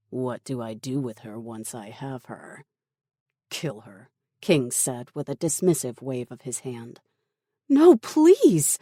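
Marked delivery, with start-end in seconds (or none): 0.1-2.6 soft, slightly lowered voice; quietly eager for the order; sinister henchman. Acted. Henchman asks about his victim. 3.5-4.1 low, soft, offhand command; dismissive order. Acted. Villain dismissively orders a killing. 7.7-8.8 high, loud panicked plea; desperate cry. A narrator's reading. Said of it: "Tara cried".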